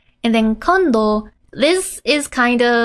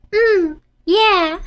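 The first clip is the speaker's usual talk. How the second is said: put-on happy child; 7 semitones higher than usual. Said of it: "It's like".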